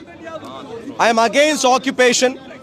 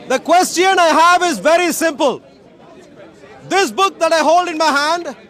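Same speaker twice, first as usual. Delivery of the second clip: raised, higher preaching voice to the crowd; street preaching; 3 semitones higher than usual. Acted. Street preacher addressing the Speaker's Corner crowd, full-voiced preaching. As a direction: proclaim it like a soapbox preacher.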